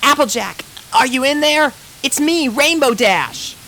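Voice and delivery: high, loud, announcing herself; calling out. A narrator's reading. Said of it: "she called".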